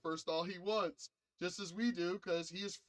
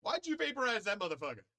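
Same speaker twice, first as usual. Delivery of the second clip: much higher and louder, rushed, near-crying disbelief; mock outraged crowd; 9 semitones higher, 5 dB louder than usual. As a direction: squeal it out like a shocked onlooker. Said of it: "I see it on both sides, good and evil, going".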